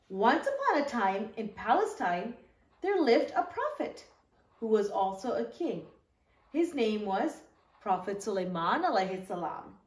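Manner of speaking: put-on gentle storybook read-aloud for young listeners; teacher reading the story to the kids, in a storybook voice; reading to children. Once-upon-a-time storytelling.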